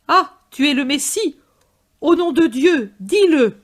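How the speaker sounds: high, loud challenge; shouted from the crowd. A narrator's reading. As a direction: demand he say it. Crowd demands Jesus declare himself.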